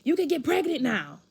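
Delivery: imitating an upset dad, high and loud; crying dad. Dad reacting to daughter's first period, high mock wail. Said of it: "He starts crying".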